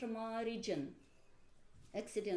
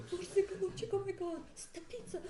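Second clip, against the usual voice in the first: laughing teasing singer; 9 semitones higher than usual. Retold or imitated. The singer mocking her singing.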